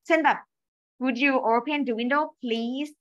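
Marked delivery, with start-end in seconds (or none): 1.0-2.9 slow, courteous ask; polite request read slowly. Shown as a demonstration. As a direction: ask nicely, drawing out please. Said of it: "มันก็จะดูสุภาพอะ".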